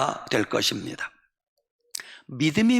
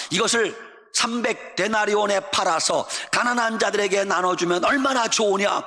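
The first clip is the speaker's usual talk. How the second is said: higher, indignant scolding; angry disciples; 4 semitones higher than usual. Acted. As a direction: scold the woman for the waste. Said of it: "화를 내면서". (화내며 꾸짖는 제자들)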